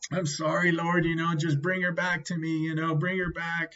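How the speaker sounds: sorry and imploring; pleading prayer. Retold or imitated. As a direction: implore the Lord, acting out the prayer. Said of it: "I was praying to the Lord".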